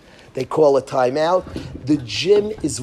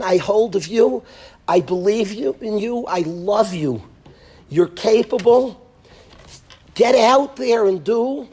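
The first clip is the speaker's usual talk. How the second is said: raised, impassioned cheering-on of a son; fervent encouragement; 6 semitones higher than usual. Pretend. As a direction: pour belief into the boy, voice lifted high. Imagined father encourages son at free throw.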